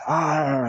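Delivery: a yell that comes out like a pirate's "Arr"; pirate growl. Shown as a demonstration. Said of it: "not at all sounding like a pirate".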